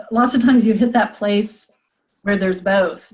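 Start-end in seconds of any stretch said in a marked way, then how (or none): none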